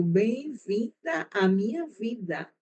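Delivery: slow, understated retold reply; wry welcome. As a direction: draw it out quietly, as wry commiseration. Wry retold reply to struggling student.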